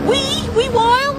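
high-pitched Scottish accent, rising at the end; practised Scottish accent. Shown as a demonstration. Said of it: "I'm still practicing my Scottish accent".

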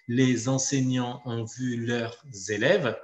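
"Les enseignants ont vu leurs élèves" slowly, Z linking "Les" to "enseignants" and "leurs" to "élèves"; liaisons sounded. Shown as a demonstration. Teacher showing liaisons, "Les enseignants ont vu leurs élèves" slow with linking Z. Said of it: "les liaisons qui peuvent être faites".

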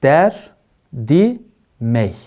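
der, di, mey split into syllables; "der-di-mey" with clear breaks; syllabified. Shown as a demonstration. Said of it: "hecelenişe dikkat".

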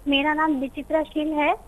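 faint, soft voice over the phone; barely audible. Real, not acted. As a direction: say it too quietly, voice fading. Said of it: "आप थोड़ा तेज बोलेंगे, आपकी आवाज कम आ रही है".

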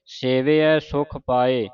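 ਸੇਵਿਐ with a short i after v, slowly; sihari on vava. Shown as a demonstration. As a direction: say ਸੇਵਿਐ as sevi-ai. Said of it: "ਵਾਵੇ ਨੂੰ ਸਿਆਰੀ ਲਾਉਣੀ ਹੈ".

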